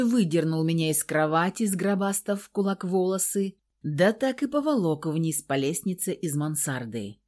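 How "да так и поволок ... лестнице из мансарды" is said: usual speaking voice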